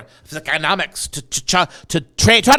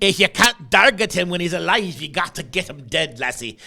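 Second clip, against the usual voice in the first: a joking put-on Scottish lilt; mock Scottish accent. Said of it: "Now I'm talking Irish".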